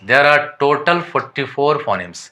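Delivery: reading English textbook lines slowly and deliberately; careful dictation pace for students; slow read-aloud definition. Shown as a demonstration. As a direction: dictate it word by word to the class.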